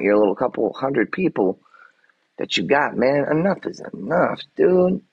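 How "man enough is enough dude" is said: fed up, snapping it out; exasperated outburst. Real, not acted. Angry rant at trolls.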